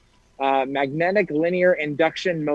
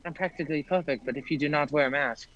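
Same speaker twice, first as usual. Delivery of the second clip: Mary Poppins in your face; 7 dB quieter than usual. Retold or imitated. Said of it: "like Mary Poppins getting in your face".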